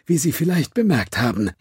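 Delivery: mock-polite apology with a sneer; sarcastic. A narrator's reading. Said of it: "Seine Stimme nahm einen sarkastischen Tonfall an".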